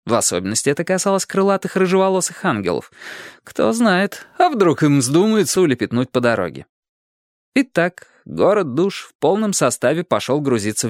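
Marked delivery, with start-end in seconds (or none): none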